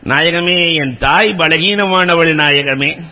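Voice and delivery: low, slow, sorrowful plea; pleading softly. Acted. Abu Huraira begs the Prophet for his weak mother, low and slow.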